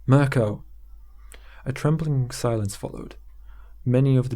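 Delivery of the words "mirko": a loud despairing cry of a name; despairing shout. A narrator's reading. Hingham calls out to the hall in despair, despairing shout. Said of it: "with a despairing shout".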